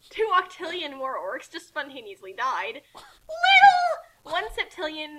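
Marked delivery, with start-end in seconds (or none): 2.9-4.0 loud, high battle cry; shouted insult. Acted. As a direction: yell it as you strike. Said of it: "shouted insults in battle".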